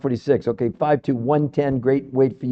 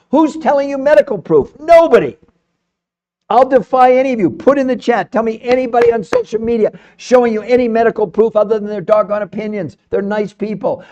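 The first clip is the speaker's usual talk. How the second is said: emotional rant; 4 semitones higher than usual. Real, not acted. Host challenging live viewers to show proof, passionate rant. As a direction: get worked up and defy anyone to prove you wrong. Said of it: "I get very emotional".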